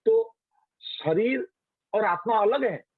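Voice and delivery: put-on high questioning little boy; child's voice. Boy Yama questioning the queens, high childlike voice. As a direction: ask it like a curious small child. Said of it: "वो बोलता है".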